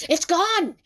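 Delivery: loud, high dismay; panicked yelp of discovery; Tsukasa. A narrator's reading. Tsukasa finds his phone missing, loud panic.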